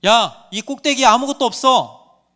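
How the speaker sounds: loud, high-pitched acted shout. A narrator's reading. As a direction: call it out from the top to everyone. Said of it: "누군가 외칩니다". (크게 외치는 소리)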